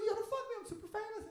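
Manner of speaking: high, brash star voice; lightly voiced cocky celebrity; mock famous guy's boast. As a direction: show off like a pushy celebrity. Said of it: "you could be like".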